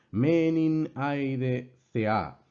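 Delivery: measured words with long, held accented vowels; Greek verse recitation. Shown as a demonstration. Teacher repeating the verse for students, measured recitation. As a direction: recite the opening of the verse word by word. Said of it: "la primera parte es la que está acentuada".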